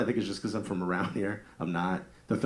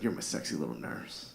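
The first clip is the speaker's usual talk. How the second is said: quieter sultry murmur; soft seductive; 6 semitones lower, 8 dB quieter than usual. Retold or imitated. Husband in bed flirting softly with his nurse wife. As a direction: breathe it low and soft. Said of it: "It's like".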